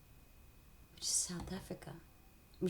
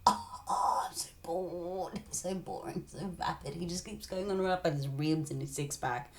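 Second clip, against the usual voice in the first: bored Eve. Acted. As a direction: drag out the boredom, sulky. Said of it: "Eve's like".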